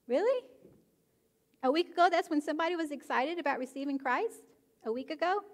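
high, disbelieving "really?"; mock shock at the answer; incredulous. Real, not acted. Preacher to congregation, scoffing in disbelief.

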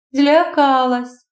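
slow, reluctant answer; slow, half-hearted reply. Acted. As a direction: say it unwillingly, barely. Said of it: "якось нехотя вимовляє".

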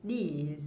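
These with a long held ee; long vowel. Shown as a demonstration. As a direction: stretch the ee in These. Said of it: "เสียงยาว".

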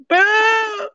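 high, loud, drawn-out mock boo; jeering boo. Imitating the audience in her nightmare, jeering boo. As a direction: imitate a heckling crowd's boo. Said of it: "and they said".

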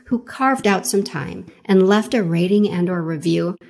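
measured, scripted host read over music; podcast intro read. Acted. Host introduces a guest to podcast listeners, scripted intro read. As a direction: introduce the guest with deliberate phrasing.

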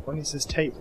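ordinary talk, nothing marked

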